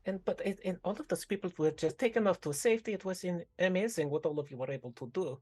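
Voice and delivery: bubbly, sweetly formal NPC voice; a chirpy villager fussing over a friend; sing-song NPC voice. Acted. Innkeeper chatting to Mishka, in a bubbly sing-song voice.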